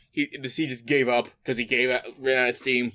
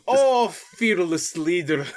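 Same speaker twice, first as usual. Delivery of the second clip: put-on Russian accent; 2 semitones higher, much slower than usual. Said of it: "going in general Russian accent".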